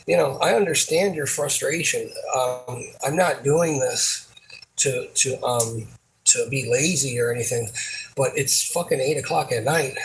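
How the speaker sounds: even, restrained retold reply; steady explaining to an upset coworker. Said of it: "I didn't raise my voice".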